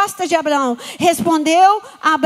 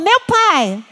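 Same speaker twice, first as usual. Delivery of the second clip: louder call; 4 semitones higher than usual. Shown as a demonstration. Congregation repeats the call louder. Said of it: "Fala de novo".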